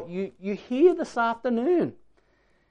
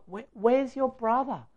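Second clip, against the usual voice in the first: raised, softer, searching question; full of pathos; 4 semitones higher, 5 dB quieter than usual. Acted. God asking Cain after the murder, full of pathos. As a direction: ask with feeling, without accusing. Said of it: "I hear the pathos in his voice".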